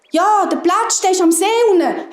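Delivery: high, urgent insistence; hares calling out. A narrator's reading. Hares explain to the fox, high anxious calling. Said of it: "haben die Häse gerufen".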